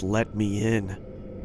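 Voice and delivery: creepy voice. Acted. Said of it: "All she said was".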